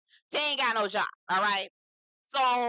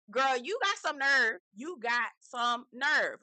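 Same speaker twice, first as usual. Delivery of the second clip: slow, higher sassy put-down; sassy comeback; 4 semitones higher, slower than usual. Retold or imitated. Telling off Hannah, slow and sassy. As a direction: draw out the nerve with attitude. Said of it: "you talking to him like".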